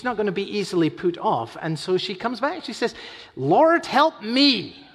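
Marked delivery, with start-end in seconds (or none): 3.4-4.8 high, loud cry for help; a woman crying out to Jesus, pleading; desperate plea. Retold or imitated. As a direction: call out to him for rescue.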